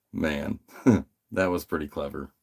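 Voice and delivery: amused, laughing through the words; giggling to himself. Retold or imitated. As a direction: chuckle it out, tickled by the trick. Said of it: "I was just giggling to myself".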